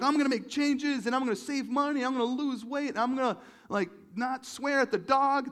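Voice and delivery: high, loud, hammed-up enthusiasm; mock inspired. Preacher imitating people inspired around January, mock excitement. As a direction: rattle off big vows with pumped-up zeal. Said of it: "we get inspired and we're like".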